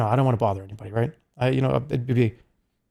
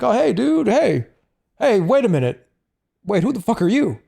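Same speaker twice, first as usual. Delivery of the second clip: excited fan; 8 semitones higher than usual. Retold or imitated. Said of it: "there's been a lot of people that have been like".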